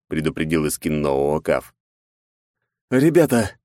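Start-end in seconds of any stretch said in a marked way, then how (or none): 2.9-3.5 crackling radio voice. Acted. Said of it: "шуршащий от помех голос".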